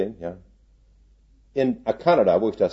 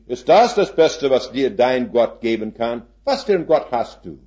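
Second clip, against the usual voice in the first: mocking boss; 2 semitones higher, 4 dB louder than usual. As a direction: boss scoffing at a praying worker. Rich boss mocking Hans.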